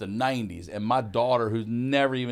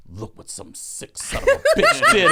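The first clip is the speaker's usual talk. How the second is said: loud, very high comic shriek; panicked; 10 dB louder than usual. Retold or imitated. Grandma blaming someone else to the employee, hammed-up panic. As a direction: shriek the cover-up through laughter. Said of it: "she said she panicked and just said".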